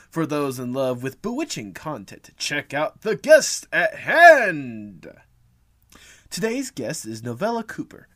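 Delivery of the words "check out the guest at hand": put-on kids party magician. Magician-style announcement.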